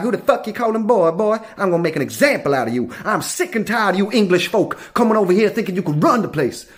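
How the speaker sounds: lightly voiced American Southern lawman; a touch of a sick-and-tired Southern cop; Louisiana cop. Cop telling off foreigners for taking over, mock Southern sternness. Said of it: "He's like".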